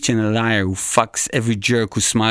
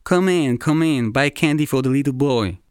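lightly voiced candy-store lady, higher, calling customers in; a mild mock sales call, pitched up on come in; shopkeeper calling out; 5 semitones higher than usual. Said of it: "the lady with yellow teeth who yells".

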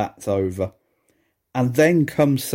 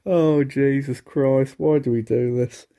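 exasperated. Real, not acted. Exasperated after laughing fit.

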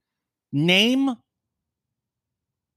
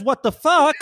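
laughing; 10 semitones higher than usual. Retold or imitated. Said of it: "Mike says".

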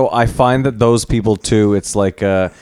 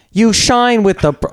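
put-on high, slow East Asian accent; 11 semitones higher, slower than usual. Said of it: "why do I have to do an Asian accent".

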